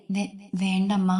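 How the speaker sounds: put-on slow, stammering little girl's refusal; trembling softly. Feverish daughter begging her mother, slow trembling stammer. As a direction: stutter the first sound, voice shaking with fever. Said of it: "വിറച്ചുകൊണ്ടവൾ മെല്ലെ പറഞ്ഞു".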